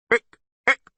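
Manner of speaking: high, loud bleating bark; barking monster. A narrator's reading. Monster confronts the intruders, barking. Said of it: "barked the monster".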